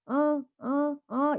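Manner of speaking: 높게 아기 소리 흉내; 아기처럼 "아, 아"; baby babble. Shown as a demonstration. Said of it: "이런 소리를 냅니다". (아기 소리 흉내)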